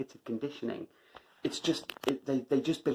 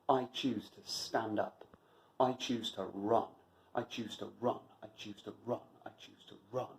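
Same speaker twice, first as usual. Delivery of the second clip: fading mantra; 2 semitones lower, 7 dB quieter than usual. Real, not acted.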